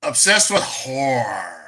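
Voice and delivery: "horror" drawn out as one syllable, "whore"; slow mimicry, squashing "horror" into "whore"; mock mispronunciation. Host mimics a guest's slip, "horror" said like "whore". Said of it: "she called it a whore".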